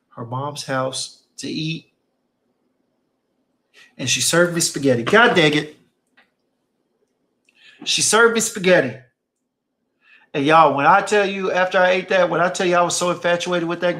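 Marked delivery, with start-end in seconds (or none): 5.0-9.0 exclaimed. Real, not acted. Exclaiming over the spaghetti.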